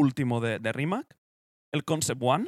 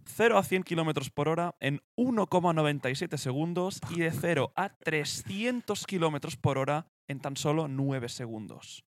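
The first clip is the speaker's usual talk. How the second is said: presenter reading out car figures; deliberate documentary-style read; scripted spec read-out. Acted. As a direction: read the figures in measured phrases. Reads out the car's figures.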